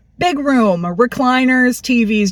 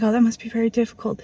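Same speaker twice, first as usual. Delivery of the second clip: mock canned sympathy; 6 dB quieter, faster than usual.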